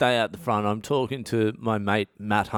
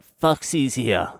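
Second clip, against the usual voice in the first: slow, higher warning; ominous girlfriend again; 4 semitones higher, 3 dB louder, slower than usual. Retold or imitated. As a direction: stretch the name as a threat. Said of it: "She's like".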